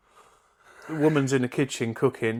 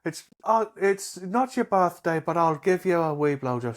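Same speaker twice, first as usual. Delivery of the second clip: bad Irish accent, higher; 4 semitones higher than usual. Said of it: "I'll try and do a bit of an Irish accent".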